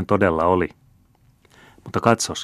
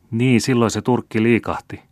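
slightly embarrassed; 4 semitones higher than usual. Acted. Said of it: "vähän hämillään".

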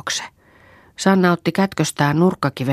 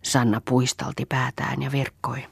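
ordinary delivery, nothing marked

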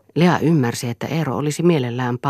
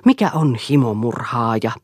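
louder, raised-voice demand; understated shout; 5 dB louder than usual. A narrator's reading. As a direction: call the question out forcefully. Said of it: "huusi Eero". (hillitysti huudettu kysymys)

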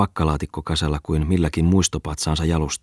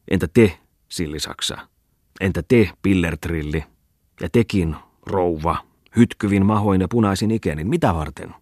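orating eccentric. Acted. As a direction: lecture them with mocking zeal. Bungman's speech to the crowd.

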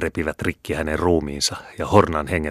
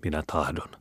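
much softer, trembling submission; 10 dB quieter than usual. A narrator's reading. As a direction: give in, shaking with fear. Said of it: "vastasi vanki vapisten". (vapiseva vastaus)

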